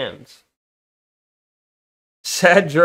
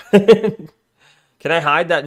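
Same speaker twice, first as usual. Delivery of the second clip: slow words through a laugh; 5 dB louder, much slower than usual. Real, not acted. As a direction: giggle while asking. Laughing about hiding bad word.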